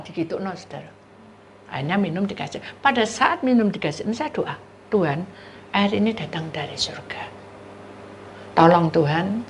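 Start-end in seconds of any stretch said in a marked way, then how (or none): none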